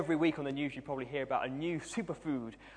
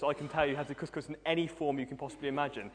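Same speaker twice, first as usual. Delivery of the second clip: usual speaking voice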